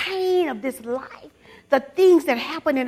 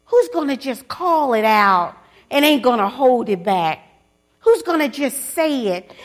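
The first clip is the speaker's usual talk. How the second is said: louder, driving the question home to the church; preacher calling out to the women, loud and fervent; fired-up preaching; 6 dB louder than usual. Real, not acted.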